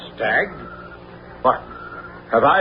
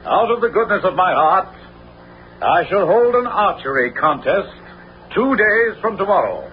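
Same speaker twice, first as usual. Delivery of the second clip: proclamation; 5 semitones higher than usual. Acted. Sheriff proclaims contest to townsfolk.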